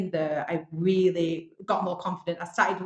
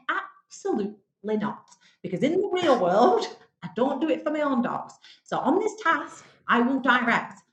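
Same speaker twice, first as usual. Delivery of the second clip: retold firm refusal; 5 semitones higher than usual. Contestant recalls refusing the dog poo task, indignant. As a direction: put your foot down, spacing out the words.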